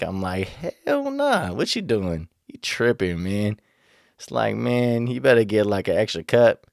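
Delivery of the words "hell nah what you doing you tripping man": "Hell nah" yelped way up high, then firm; mock outraged refusal. To the friend who wants to share his cup, mock outraged refusal. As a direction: recoil in exaggerated refusal.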